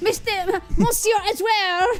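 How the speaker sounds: put-on French accent. Voicing a character in the scene, in a bad french accent. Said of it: "I next to never do a French accent".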